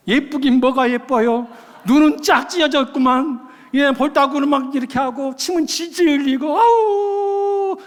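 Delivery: loud, hammed-up blunt criticism; mock disgust. Acting a tactlessly honest pastor's reply.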